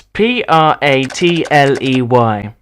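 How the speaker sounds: letters said slowly one by one; spelling out slowly. Shown as a demonstration. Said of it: "How do you spell your last name".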